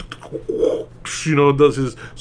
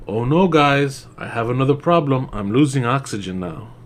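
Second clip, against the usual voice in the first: mock calm. Mocking the actress losing oxygen, unbothered. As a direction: say it like nothing's wrong. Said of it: "she says it just like that".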